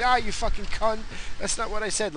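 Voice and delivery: high, loud mock rage at a robot; angry yell at robot. Podcaster yelling at his robot, high loud mock fury. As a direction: snap at the machine like it's dumb. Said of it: "I'd get mad at it".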